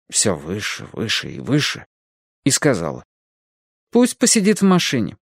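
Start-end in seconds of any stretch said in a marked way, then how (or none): 3.9-5.2 cold stern lady. A narrator's reading. Edie voiced by narrator.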